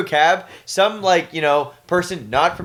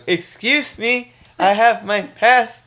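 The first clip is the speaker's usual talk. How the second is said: Wayne's World bit; 5 semitones higher, slower than usual. Pretend. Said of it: "you being Wayne and Ryan being Garth".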